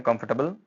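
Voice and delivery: कंफर्टेबल with a reduced middle; squeezed pronunciation. Shown as a demonstration. Teacher showing a memory trick, squeezed कंफर्टेबल. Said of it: "squeeze करें इसको".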